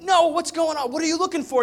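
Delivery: loud baffled father; exasperated call. Retold or imitated. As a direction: call out to him over the crowd. Dad pleading with distracted son.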